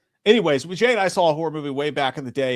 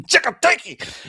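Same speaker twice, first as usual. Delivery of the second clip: laughing flub; 12 semitones higher, 6 dB louder, slower than usual. Real, not acted. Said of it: "laughs at own slip".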